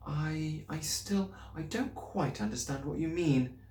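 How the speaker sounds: teacher gently puzzled with her pupil. A narrator's reading. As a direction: ease the child along kindly. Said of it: "said gently".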